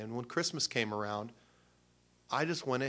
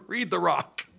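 loud, high urging through laughter; laughing plea; 7 semitones higher, 9 dB louder, slower than usual. Retold or imitated. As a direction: burst out urging mom, laughing as you go. Urging mom while laughing.

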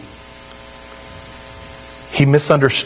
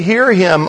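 HEAR higher, him dropping away; stress on HEAR; 5 semitones higher than usual. Shown as a demonstration. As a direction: lean on the word "Hear". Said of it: "the emphasis is on the second word".

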